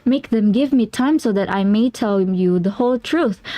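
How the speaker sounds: put-on frantic young client. McFarlane pleads with Holmes.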